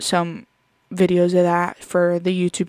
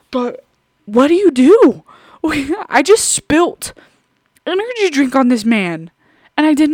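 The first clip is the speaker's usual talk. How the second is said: laughing embarrassed; 6 semitones higher, 6 dB louder than usual. Real, not acted. Laughing at her own blunder.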